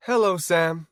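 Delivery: cool, detached greeting; detached doctor; dispassionate. Acted. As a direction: greet him without emotion. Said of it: "he said dispassionately".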